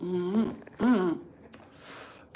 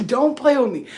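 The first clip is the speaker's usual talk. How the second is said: daughter mimicking; 6 semitones higher, 7 dB louder than usual. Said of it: "She's like".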